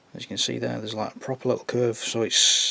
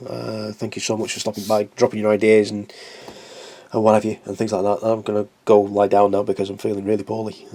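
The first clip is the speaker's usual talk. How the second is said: sick voice; 4 dB louder than usual. Real, not acted. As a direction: voice worn down by illness. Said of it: "as you can probably hear".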